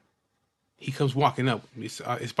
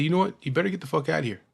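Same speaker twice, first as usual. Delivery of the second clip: raised warning; 5 semitones higher, faster than usual. Retold or imitated. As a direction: push him off with a raised voice. Ordering gunman to leave.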